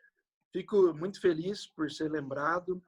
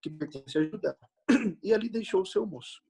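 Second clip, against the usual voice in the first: raised, solemn Bible reading voice; scripture reading; 4 semitones higher than usual. Acted. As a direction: read the passage aloud to the congregation. Reads Bible passage aloud.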